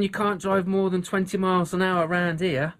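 a bad southern accent; lightly put-on southern accent. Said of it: "that was a really bad southern accent".

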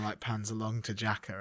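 usual speaking voice

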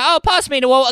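high posh British take; posh British accent. Retold or imitated. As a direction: toff asking for water. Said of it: "they're all like".

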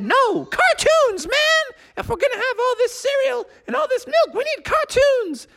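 party crowd. Acted. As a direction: drag it out like stoned surfer dudes. Crowd demanding cartoons.

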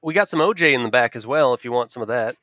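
Southern waitress. Acted. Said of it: "she is not Southern".

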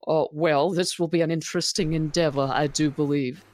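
politely hesitant, formal character voice; genteel lady Magma. Acted. Magma greeting a halfling stranger, genteel and hesitant. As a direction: make a mannered, courteous introduction.

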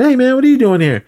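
high, loud mock surprise; acted-out greeting. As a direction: imitate someone hailing a buddy across a club. Acted greeting between film characters.

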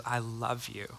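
softly, almost a murmur; soft loving words. Retold or imitated. Husband retelling his wife's I love you, softly. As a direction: say it gently and close. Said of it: "looks me straight into the eye and says".

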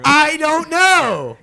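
stretched, laughing whine; laughing helplessly; high laughing squeal. Real, not acted. Laughing at his own story, squealing.

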